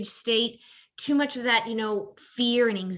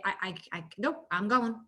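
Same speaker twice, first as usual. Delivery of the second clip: mock timeout exit; 4 dB quieter than usual. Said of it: "I say".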